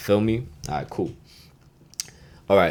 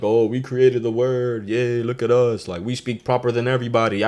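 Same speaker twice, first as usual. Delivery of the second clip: mock snooty; 2 semitones higher than usual. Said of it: "they wanna be all like".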